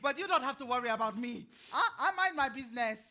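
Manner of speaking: laughing through the words; a knowing chuckle under each phrase; chuckling. Acted. Old woman chuckling while talking.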